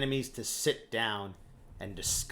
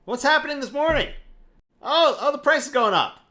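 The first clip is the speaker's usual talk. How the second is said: surprised; 12 semitones higher, 7 dB louder than usual. Real, not acted. Reacting to oil price chart.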